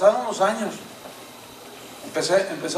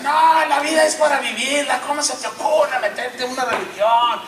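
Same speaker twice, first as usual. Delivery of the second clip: raised, louder scoffing protest; mocking friends; 6 semitones higher, 3 dB louder than usual. University friends scolding a new convert, scoffing and loud. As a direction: scoff at his choice, voice pitched up.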